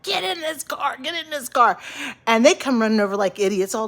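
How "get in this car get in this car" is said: high-pitched call to the dogs, on the edge of panic; calling the runaway dogs out of the car window. Retold or imitated. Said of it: "I'm calling, like".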